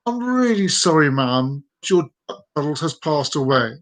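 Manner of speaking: mildly sorrowful vet breaking bad news; gently regretful, falling away at the end; sad. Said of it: "says sadly".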